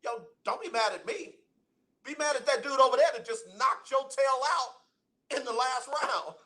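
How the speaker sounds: lightly voiced calm referee. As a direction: play the unbothered referee talking down an angry boxer. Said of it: "said to him very calmly".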